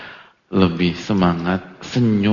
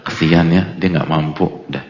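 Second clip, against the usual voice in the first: mock sympathy; 5 semitones lower than usual.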